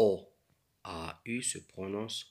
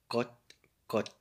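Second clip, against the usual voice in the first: hen clucking; 3 semitones higher than usual. Shown as a demonstration. Hen clucks in reading text.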